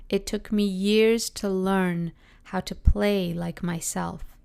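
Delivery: slow and deliberate, letting each word land; slow heartfelt quote. Shown as a demonstration. Repeating a favourite quote for viewers, slow and heartfelt. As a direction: savor the line so the listener feels it, fading at the end. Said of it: "let me just say it for you again, because maybe you're gonna feel it too".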